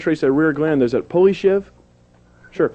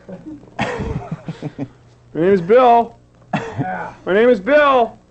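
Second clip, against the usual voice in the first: slow spaced repeat; 8 semitones higher, much slower than usual. Pretend. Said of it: "reminds me of a singles bar".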